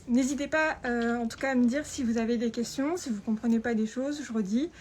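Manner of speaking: muffled behind a face mask; through a face mask. Real, not acted. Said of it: "Avec le masque, c'est pas évident".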